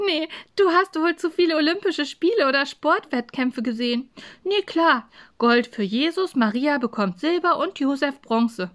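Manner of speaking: joking, mock-explaining tone; giggly teasing. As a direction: tease a friend, still tickled. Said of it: "die kichern musste".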